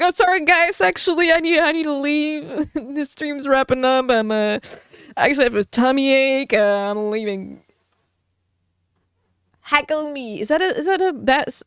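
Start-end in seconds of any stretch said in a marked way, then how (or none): 0.0-7.6 flustered fake excuse. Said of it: "I'll just end up crying".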